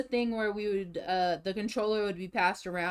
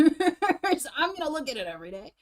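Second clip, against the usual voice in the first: giggling while speaking, pleased; laughing; 8 semitones higher, 7 dB louder than usual. Real, not acted. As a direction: laugh through the line.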